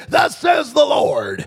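slow, loud, high declaration; prophetic proclamation. Retold or imitated. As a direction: proclaim it slowly at full volume. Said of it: "He says".

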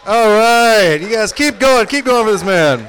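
loud, high-pitched emcee shout; hyping the crowd. Real, not acted. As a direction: shout over the applause to keep it going. Host hypes crowd on stage.

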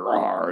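spoken mock roar of a big cat; imitated tiger roar. Recapping the tiger reveal in the theater, imitated roar. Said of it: "And you hear".

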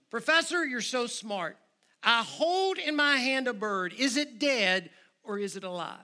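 lightly voiced young man testing the professor; challenging young man.

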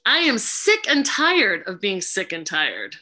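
slow, deliberate mantra; mantra first take. Shown as a demonstration. Facilitator leading the group in the mantra, slow and firm. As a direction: lead the group slowly and firmly. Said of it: "We're gonna try".

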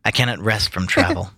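slow, measured recitation; poem reading. Acted. Reading Tennyson to friends, earnest recitation. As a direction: read it with gravity, lingering. Reads Ulysses aloud.

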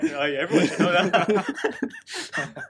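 loud, slow teasing imitation through laughter; high-pitched, laughing mockery; mock know-it-all. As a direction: laugh while mimicking someone's obvious-answer attitude. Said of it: "he said that one like".

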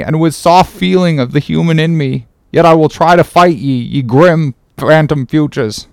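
a lightly voiced troubled mate pleading; anguished Starbuck. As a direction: pray to unseen powers, struggling.

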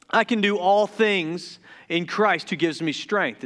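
rushed, tripping verse reading; garbled fast quote of the verse; excited rush. Real, not acted. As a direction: hurry through it too excited to land it. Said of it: "I'm stuttering a lot".

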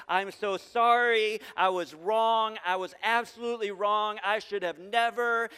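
slow, drawn-out, hammed-up apology; over-the-top remorse; mock pleading apology. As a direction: imitate someone begging forgiveness, stretching the words. Acted tearful apology from offender.

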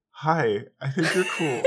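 high, loud, giddy self-imitation; starstruck greeting. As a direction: gush shyly at someone you admire. Acting out meeting an idol in chat.

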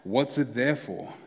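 "What's it there for?" said slowly, punning on "therefore"; drawn out "What's it there for?" as a wordplay; slow pun. Shown as a demonstration. Preacher to congregation, "What's it there for?" slow and pointed. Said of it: "we should ask".

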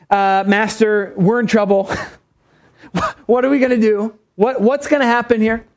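a touch of mock panic, stumbling over the question; acted freaking out. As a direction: play a flustered servant pleading with his master. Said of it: "he's freaking out".

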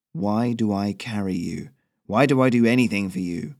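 put-upon and sour; grumpy goose. Acted. Goose voiced, lower.

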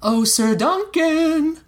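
high, slow sing-song call. Acted. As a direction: call him across the tavern. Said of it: "he heard Egg call his name".

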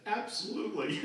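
high, thrilled Absolutely; eager yes. Retold or imitated. Boy answering the head counselor, eager high yes. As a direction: jump at the offer.

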